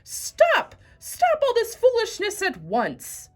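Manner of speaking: very loud high commanding shout; booming voice. Acted. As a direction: thunder at the animals to stop. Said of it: "in a great booming voice".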